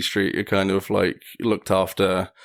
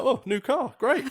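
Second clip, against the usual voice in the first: higher pitched, laughing through the words; laughing mock cheer; slower than usual. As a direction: cheerfully shrug off the crash. Joking about the crashed car.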